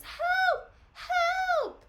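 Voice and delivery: high, loud, laughing "Help!"; hammed-up distant cry; offstage cry for help. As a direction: yelp it from offstage, half laughing.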